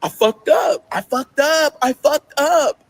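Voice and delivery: high, slow, breaking repetition; slow anguished repeated confession; anguished self-blame. Real, not acted. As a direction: say it like the realization crushes you. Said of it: "I just stared at the ceiling".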